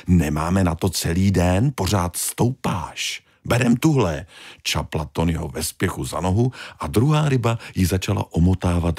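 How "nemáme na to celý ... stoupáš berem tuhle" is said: a mild push to get on; impatient big fish. Acted. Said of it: "vložila se do toho velká ryba". (netrpělivá velká ryba)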